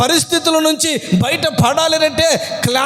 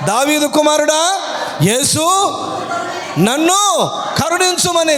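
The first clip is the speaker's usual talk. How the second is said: crying out. Retold or imitated. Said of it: "ఎలా అరిచినాడు ఆయన".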